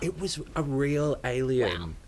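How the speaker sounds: slow secret whisper. Pretend. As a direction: breathe it slowly as a secret. Conspiratorial reveal reply.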